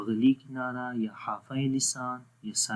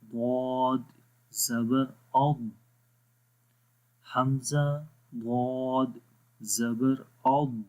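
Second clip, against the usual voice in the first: recitation; much slower than usual. Shown as a demonstration. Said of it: "آگے ہے حمزہ".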